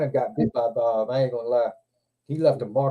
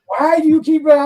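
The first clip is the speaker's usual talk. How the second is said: retold alarmed yell; 12 semitones higher, 8 dB louder than usual. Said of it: "I'm like".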